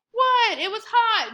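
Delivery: sharp, high indignant protest; high, loud kid's protest; indignant what. Acted. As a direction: defend yourself, caught out and outraged. Scott defends drinking the lemonade.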